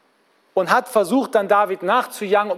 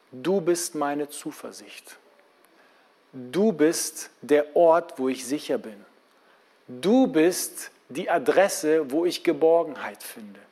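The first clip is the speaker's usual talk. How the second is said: softer, slow, settled prayer; calm and quiet; 5 semitones lower than usual. Shown as a demonstration. Preacher models a calm, quiet prayer to God after the outcry. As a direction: come down and speak to God in peace. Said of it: "und mit Gott ganz in Ruhe sprechen".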